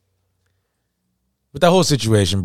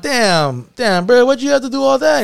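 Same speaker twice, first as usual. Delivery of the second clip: retold disbelief, pitched much higher; reenacting shock at a friend's overreaction; much higher, mock incredulous; incredulous surprise; 13 semitones higher than usual. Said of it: "I'm like".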